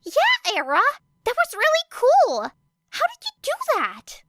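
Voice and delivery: put-on high, loud, bubbly girl; excited cheer. A narrator's reading. Uraraka cheering Era's quick catch, excited high and loud. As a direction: gush with delight.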